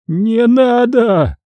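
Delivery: very high, very slow wail of terror; long drawn-out howl. Acted. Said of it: "протяжно завыл Говоров". (протяжно воет от страха)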